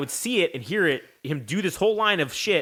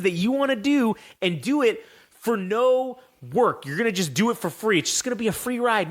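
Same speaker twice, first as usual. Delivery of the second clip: scolding lecture; 5 semitones higher than usual. Retold or imitated. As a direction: lay down the law like a wrestler. Triple H's scolding, acted out.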